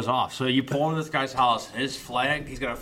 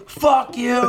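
much higher and louder mock shout; retold shout; 13 semitones higher, 8 dB louder than usual. Retelling the vet cursing out the clerk, loud mock shout. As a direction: yell it and slam the phone down. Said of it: "He goes".

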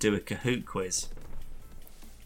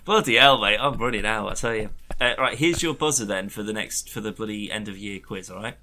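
aussie tradesman. Pretend. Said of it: "Can I use you as my buzzer".

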